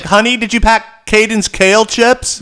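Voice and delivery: high, drawn-out henpecked husband voice; submissive partner. Acted. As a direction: play a fussy, submissive husband in falsetto. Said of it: "you want this submissive".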